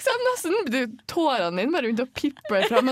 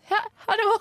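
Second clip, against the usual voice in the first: much higher and louder bright greeting; mock cheery hello; 12 semitones higher, 5 dB louder than usual. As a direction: overdo the friendly hello. Retold cheery greeting to stranger.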